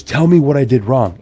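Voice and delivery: imitated pressing demand. Customer pressing booth owner for reasons, mock insistence. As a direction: press for an answer like an aggrieved customer. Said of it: "the guy just kept pressing and pressing".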